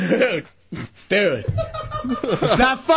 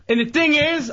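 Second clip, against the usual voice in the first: worked-up, slightly raised voice; 5 semitones higher than usual. Real, not acted. Upset man starts explaining about his flat tire, raised voice. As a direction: push it out, on the edge of yelling. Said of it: "Don't yell".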